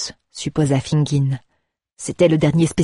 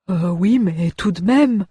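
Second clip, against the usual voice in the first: grimacing dwarf; 3 semitones higher, slower than usual. Acted. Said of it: "grimaça le nain".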